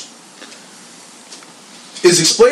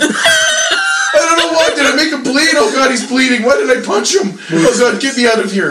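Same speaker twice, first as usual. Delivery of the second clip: high, wailing mock sob of a panicked drunk; mock crying; 8 semitones higher than usual. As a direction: ham up the blubbering drunk. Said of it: "then he starts crying".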